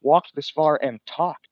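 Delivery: slow, winded from walking; breathless from walking and talking; out of breath. Real, not acted. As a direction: puff it out after a long walk. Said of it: "I'm almost out of breath".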